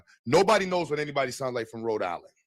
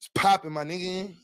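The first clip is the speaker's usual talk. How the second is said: YN voice; 4 semitones higher than usual. Pretend. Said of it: "Do a Y N voice".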